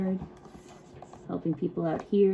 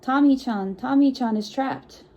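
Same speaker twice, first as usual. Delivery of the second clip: mock shouting; 5 semitones higher, 4 dB louder than usual. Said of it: "heard a group of people shouting".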